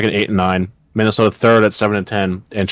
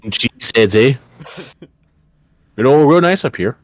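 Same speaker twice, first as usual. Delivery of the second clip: mock Midwestern accent; 3 semitones higher than usual. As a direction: play the friendly Midwesterner from Green Bay in Midwestern accent. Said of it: "Midwestern accent".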